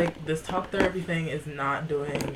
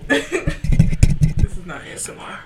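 laughing protest; 9 semitones higher, 8 dB louder, slower than usual. Real, not acted. Mock scolding laugh.

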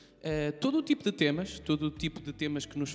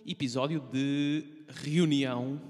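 sensual voice; slower than usual. Acted. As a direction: purr the title seductively. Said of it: "adoro essa voz sensual". (voz sensual e lenta)

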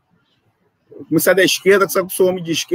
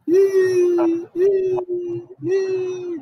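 dismayed exclamation; 12 semitones higher, much slower than usual. Real, not acted. Internet drops, dismayed exclamation.

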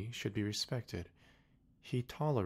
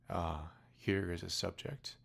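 king exclaiming. Acted. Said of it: "exclaimed the king".

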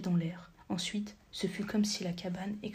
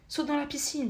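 shouted; 6 semitones higher than usual. A narrator's reading. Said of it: "lui cria Kendra".

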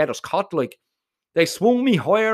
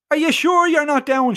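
much higher, louder call; shouted; 9 semitones higher, 4 dB louder than usual. Acted. Domo shouting down to his dangling friend. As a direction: shout it down from the window. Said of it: "shouts Domo".

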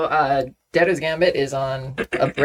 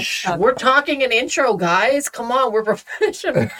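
mock stern shush; 10 semitones higher than usual. Real, not acted. Hushing others, mock professional.

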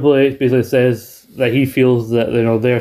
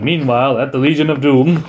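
cartoon narrator. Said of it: "Saturday morning cartoon villains".

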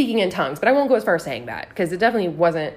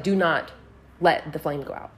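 low, measured retold warning; grave imitation of the neighbor's order; dead serious; 5 semitones lower than usual. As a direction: pause after "Do not", lower the pitch. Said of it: "Dead serious, just like".

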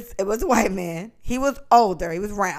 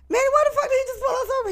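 incredulous; 4 dB quieter, faster than usual. Retold or imitated. Retold outburst after stop.

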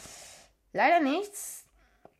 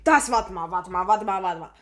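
surprised; 4 semitones lower, 8 dB louder than usual. Real, not acted. Stunned by the reward.

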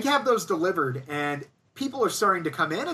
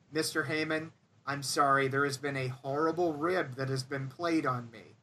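clenched teeth; 4 semitones lower than usual. Retold or imitated. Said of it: "talking through clenched teeth".

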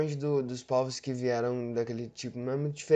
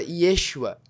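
put-on a louder Israeli-accented "Yeshua"; imitated Israeli accent; 3 semitones higher, 4 dB louder than usual. Showing viewers the Israeli name for Jesus. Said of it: "falasse essa mesma palavra".

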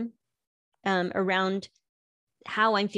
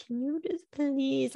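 higher, exasperated plea; husband pleading; 6 semitones higher, 3 dB quieter than usual. Retold or imitated. Husband begs his arguing wife, higher exasperated plea. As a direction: stretch out the please. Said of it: "and he'll be like".

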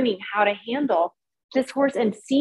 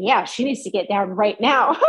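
nervous laugh. Retold or imitated. Retelling scary moment, laughing nervously.

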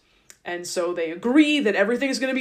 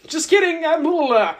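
disgusted Laban; 6 semitones higher, 7 dB louder than usual. Retold or imitated. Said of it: "And Laban's like".

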